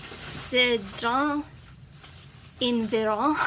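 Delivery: halting French said with an American accent; tentative, butchered French in an American accent; foreign accent in french. Real, not acted. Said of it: "I completely butchered that".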